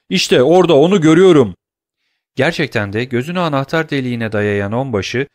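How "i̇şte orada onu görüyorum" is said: loud, high-pitched cry of discovery; shouting. A narrator's reading. Pursuer at the door spotting the fugitive, excited shout. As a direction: shout to alert the others. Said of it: "diye haykırdı biri".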